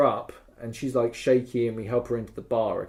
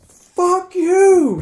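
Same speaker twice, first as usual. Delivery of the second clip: high, loud furious shout; angry yell; 10 dB louder than usual. Retold or imitated. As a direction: scream it straight at him. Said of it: "yelling at them".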